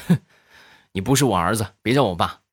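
a hint of a cold snorting father. Dad snorts coldly at his son after the bad report card. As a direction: snort it out coldly, barely voiced. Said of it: "地雷当时冷哼一声".

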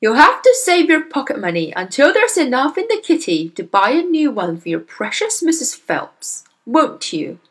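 loud taunting sarcasm; mock her as you rip pages; sneering father. Father taunting his daughter about buying a new book. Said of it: "the father said, still tearing".

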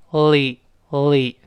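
“li” from a held L into a vowel; blended L syllable. Shown as a demonstration. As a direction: press the tongue up, then release “li”. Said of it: "再跟这个a一拼". (舌尖顶住再拼出“li”)

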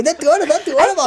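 mock coy demur. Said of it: "他不能这么真说出来".

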